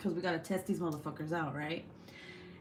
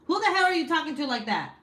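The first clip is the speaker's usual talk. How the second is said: louder, higher half-joking telling-off; mock scolding; 9 semitones higher, 5 dB louder than usual. Mom playfully scolding her son for demanding tacos, louder. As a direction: scold the kid for his tone, playfully.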